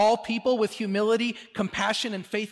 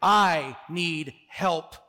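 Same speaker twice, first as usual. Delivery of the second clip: very slow, deliberate declaration; drawn-out, clearly projected plea; loud and clear; 3 semitones lower, much slower than usual. Acted. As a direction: state each word firmly and distinctly. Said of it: "speaks loudly and clearly".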